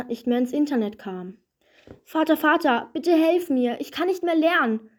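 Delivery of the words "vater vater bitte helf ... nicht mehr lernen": higher, pleading cry for help; desperate plea. Acted. Coronita begs her father for help, mildly desperate. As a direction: beg your father in mild despair. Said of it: "sagte Coronita verzweifelt".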